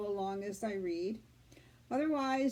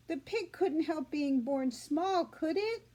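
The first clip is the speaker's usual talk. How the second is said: put-on pleading girl; 4 semitones higher than usual. Fern pleads with father.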